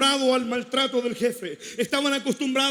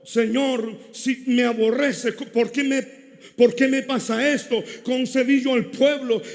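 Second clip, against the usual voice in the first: complaining Moses; 3 dB louder than usual. Retold or imitated. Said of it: "pero él dice".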